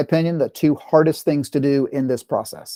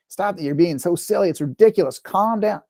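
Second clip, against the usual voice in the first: a mildly voiced impatient parent, higher pitch; dismissive scolding; 4 semitones higher than usual. Parent scolding an upset daughter, impatient and dismissive. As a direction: brush her off, short and annoyed, lightly acted. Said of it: "Do I raise my voice? Do I, talk over her?".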